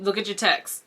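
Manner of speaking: urgent hushed whisper; whispered warning. Retold or imitated. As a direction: whisper it so nobody hears. Sister warns her over FaceTime.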